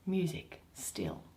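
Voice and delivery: whispered low command; hushed whisper. Acted. Oberon whispering for soft music. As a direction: hush the music gently.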